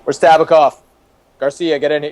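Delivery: mock yell summoning staff; retold yelling. Boss summoning random staff, mock yelling. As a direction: bark names down the hall, half-acted. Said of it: "he'd start yelling for the".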